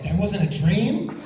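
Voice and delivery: high, slow, stunned disbelief; incredulous question. Retold or imitated. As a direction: draw it out high, rising in disbelief. Acting his shocked reply.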